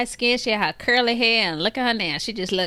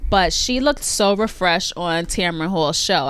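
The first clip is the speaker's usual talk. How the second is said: ordinary talk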